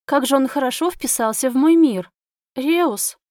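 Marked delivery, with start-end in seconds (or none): 2.5-3.2 breathed out. A narrator's reading. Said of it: "выдохнула я".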